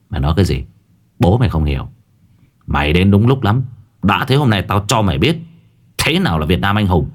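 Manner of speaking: gritted teeth. Acted. Young master defying the sorcerer with gritted teeth. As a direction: taunt him back, teeth clenched. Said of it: "nghiến răng nghiến lợi".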